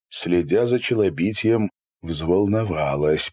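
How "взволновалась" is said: usual speaking voice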